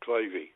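Clivey said as KLY-vee, the end E voiced; Clivey with final E. Pele calling his agent by name, final E sounded. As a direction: stretch the ending of "Clivey" into a clear -ee. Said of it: "he always pronounced the E on the end of my first name".

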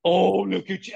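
high, cooing mock baby talk; hammed-up, high sing-song coo; talking down to kids. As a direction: gush as if over a toddler. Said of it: "I don't talk like that".

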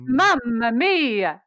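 Mamma mia drawn out, m's buzzing; slow Mamma mia. Shown as a demonstration. Coach repeats the slow, resonant phrase. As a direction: lean into the m of Mamma. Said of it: "watch that second syllable".

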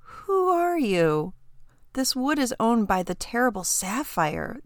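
a frightened lad facing a dragon; shaking voice. Acted. Elder boy challenging the dragon, voice high and shaking. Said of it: "the elder boy's voice shook".

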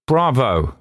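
husky. A narrator's reading. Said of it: "said Malcolm huskily".

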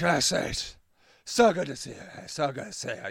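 soft, low, tearful drunk impression; imitated tearful thanks. Drunk man greeting the helper who brings food, imitated tearful thanks. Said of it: "being crying to thankful".

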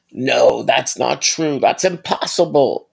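half-hearted whining wail; mock anguished cry. Vlogger imitating Luke's anguished denial, as a mock cry. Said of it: "whining and crying".

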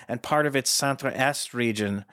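Centre-Est said the French way as sont-ruh EST, a bit slowed; attempted French. Shown as a demonstration. Host attempting French place name, self-conscious bad French accent. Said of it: "I tried to throw in a little French there".

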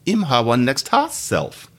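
slow Jamaican patois, falling on hoss; unhurried Jamaican patois quote. Shown as a demonstration. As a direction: give the Jamaican patois again, slowly. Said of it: "What that means is".

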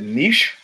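"Niche" said as NEESH, with rising tune; French-style pronunciation. Retold or imitated. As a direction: say "Niche" to rhyme with leash, tentatively rising. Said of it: "how do you pronounce that word".

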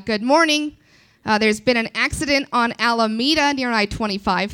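lightly voiced cheery radio announcer; a hint of breezy traffic report; chipper traffic reporter. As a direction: deliver disasters brightly. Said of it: "She sounds like this".

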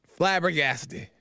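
ordinary talk

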